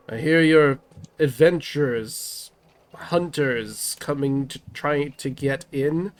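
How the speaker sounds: lightly voiced wary nobleman; a cautious town leader, firm; Burgomaster voice.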